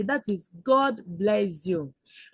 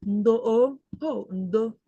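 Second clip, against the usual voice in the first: a gentle, sympathetic "ndo"; soothing apology; slower than usual. Pretend. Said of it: "you tell her".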